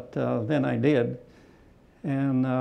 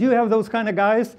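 higher, louder, laughing through it; 9 semitones higher, 3 dB louder than usual. Retold or imitated. German ace teasing the American pilot, laughing question. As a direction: laugh as you ask.

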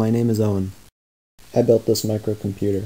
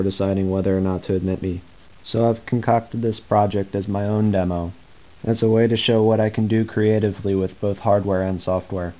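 flat, detached monotone read; disaffected monotone. Real, not acted. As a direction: drone it out without any feeling. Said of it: "I'm sorry for the disaffected monotone".

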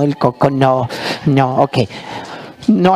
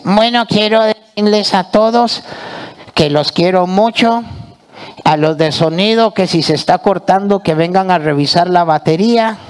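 puppet voice; 4 semitones higher than usual. Acted. Puppet says goodbye in character.

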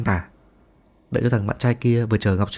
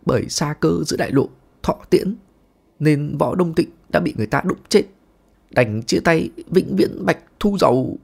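mock dying words; 4 semitones higher than usual. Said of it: "giọng điệu dặn dà khó khăn".

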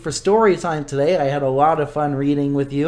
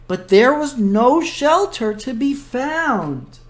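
lively storybook narration; reading to children; 3 semitones higher than usual. A narrator's reading. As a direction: read it like a children's book. Librarian reads picture book.

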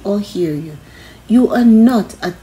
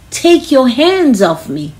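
loud, higher yell to push someone off; 6 semitones higher, 6 dB louder than usual. Shown as a demonstration. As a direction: shout it to make a scene. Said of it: "You can yell".

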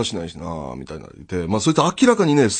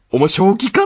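incredulous; 7 semitones higher, 4 dB louder than usual. Retold or imitated. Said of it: "っていうタイミングで".

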